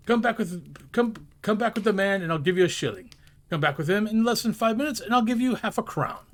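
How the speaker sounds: high, loud eager bargaining; eager urging. Acted. Scrooge urging the boy to hurry back. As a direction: urge the boy on, bubbling over.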